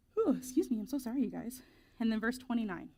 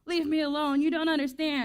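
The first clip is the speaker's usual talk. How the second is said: mock teen whine, higher and louder; hammed-up huffy protest, pitched up; exasperated teen outburst; 5 semitones higher, 4 dB louder than usual. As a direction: act out a fed-up kid shutting parents out. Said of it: "Are you just being like".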